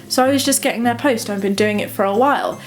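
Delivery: lightly voiced calm thief, steady and even; a hint of cool composure; calm, matter of fact. The thief explaining away the stolen post, calm. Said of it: "so calm and matter of fact".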